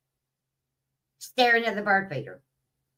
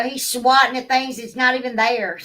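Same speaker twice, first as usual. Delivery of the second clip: laughing; 3 dB louder than usual. Real, not acted. Laughing at the cat's antics.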